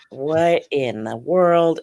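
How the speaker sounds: loud, drawn-out astonishment; recounting baffled amazement; retold disbelief. Retold astonished reaction to the scene.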